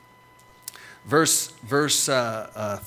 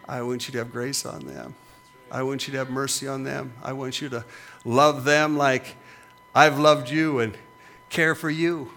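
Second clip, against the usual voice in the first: gentle Lord's voice. Retold or imitated. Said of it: "it's like the Lord said".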